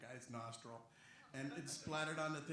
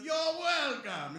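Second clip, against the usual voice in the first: Hondo; 11 semitones higher, 17 dB louder, much slower than usual. Acted. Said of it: "But they went with".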